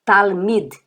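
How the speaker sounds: "talmid" ending in a soft DH; careful "talmid", final d softened to DH. Shown as a demonstration. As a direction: say "talmid" with a light, released DH at the end. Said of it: "olha como eu pronuncio talmid".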